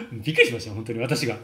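fast, laughing "びっくりしました" with the fall on く; laughing amazement. Real, not acted. Coach recalling a student's change, laughing fast. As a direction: blurt it out quickly through a laugh. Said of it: "私がびっくりしました".

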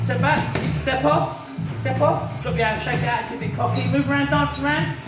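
sharp barked pad-work calls; boxing coach calling combos. Real, not acted.

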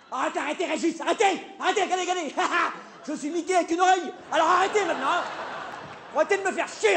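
high-pitched comic exasperation; exasperated protest. Acted. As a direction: plead and scold to make him stop. Begging the technician to stop. (protestation exaspérée, voix aiguë)

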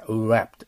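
wrapped starting from a rounded 'u' into R. Shown as a demonstration. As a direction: round the lips as for う before wrapped. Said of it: "う、うという発音にならないといけません".

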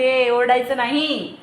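loud, slow mock telling-off; imitated scolding. Mother imitating her daughter scolding the cow, loud drawn-out mock order. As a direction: draw out a bossy toddler's reprimand. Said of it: "आणि ती ओरडली ना तिला का म्हणते".

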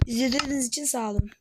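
quick unvoiced sign-off; fast hushed outro; whisper. Real, not acted.

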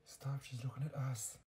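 soft hissed plea; urgent whisper. Acted. Girl hushing her friend under a stranger's stare, whispering. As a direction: whisper so the girl behind can't hear.

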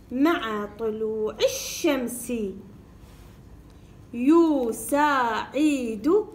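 "شامل" stretched, split into slow syllables. Shown as a demonstration. Teacher reading by syllables for pupils, slow. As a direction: spell it out slowly in syllables. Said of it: "بالطريقة المقطعية".

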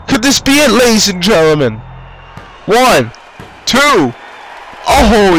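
fast, hyped ringside play-by-play; wrestling commentator. Acted. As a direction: call every move like live TV.

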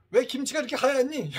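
high, loud, indignant complaint; mock complaining mother. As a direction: imitate an old mother grumbling about the food. Mother complains about white kimchi.

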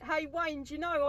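ordinary talk

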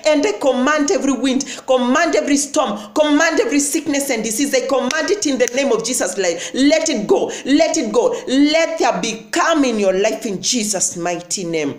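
preaching at full force. Acted. Preacher commanding sickness to leave, full-force preaching. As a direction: command the storms away, building up. Commanding prayer over the listeners.

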